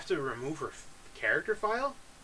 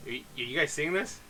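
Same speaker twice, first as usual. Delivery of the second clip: shocked outburst; 2 semitones higher, 9 dB louder, slower than usual. Real, not acted. Player seeing the deleted girl pop back up, shocked. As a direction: burst out in real shock.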